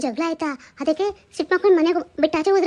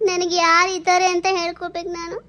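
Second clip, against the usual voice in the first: crying. Acted. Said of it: "ಯಾಕೆ ಅಳ್ತಾ ಇದ್ದೀರಲ್ಲ ನೀವು?".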